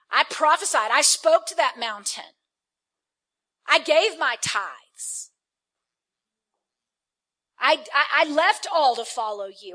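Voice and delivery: loud, petulant demands with a pleading Daddy; whiny entitled son. Acted. Elder son demanding a reward from his father, whining loudly. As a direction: whine at Daddy like a spoiled son. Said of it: "Gotta put it in some religious language".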